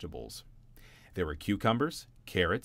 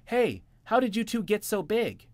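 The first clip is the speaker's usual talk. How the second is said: high, loud squeaky tiny bunny; high, loud mouse-sized bunny; 13 semitones higher, 6 dB louder than usual. Acted. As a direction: call up amazed at giant brothers. Tiny Jimmy calling up.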